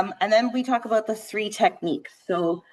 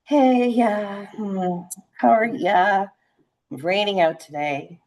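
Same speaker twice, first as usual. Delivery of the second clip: chill caller; slower than usual. Shown as a demonstration. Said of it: "they're very chill and they're like".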